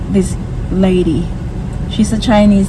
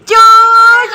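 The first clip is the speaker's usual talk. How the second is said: much higher, louder cheer of juice; excited cheer; 12 semitones higher, 5 dB louder than usual. Real, not acted. Cheering toddler's word.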